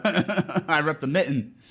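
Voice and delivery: "mitten" with the T disappearing, Michigan style; dropped middle T. Shown as a demonstration. Showing off Michigan speech, "mitten" with no middle T. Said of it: "the T's just disappear".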